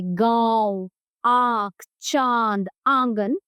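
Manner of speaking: गांव, आंख, चांद, आंगन slowly, vowels through nose and throat; nasalized vowels. Shown as a demonstration. Teacher showing anunasika, गांव, आंख, चांद, आंगन with long nasalized vowels. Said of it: "नाक और गले दोनों से होता है".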